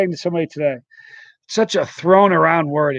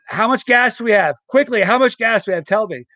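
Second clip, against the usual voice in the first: quick urgent demand, higher pitch; urgent questioning; 5 semitones higher than usual. Retold or imitated. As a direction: press them for an answer right now. Acted urgent demand to friends.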